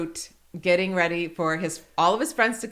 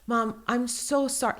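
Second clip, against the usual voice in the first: put-on child's apology; 3 semitones higher, 4 dB quieter, slower than usual. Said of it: "He's apologizing to me".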